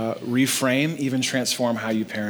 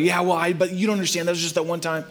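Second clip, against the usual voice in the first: defensive excuse; 3 semitones higher, faster than usual. Retold or imitated. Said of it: "Don't come with your already".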